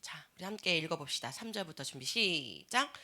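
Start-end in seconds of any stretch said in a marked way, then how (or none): none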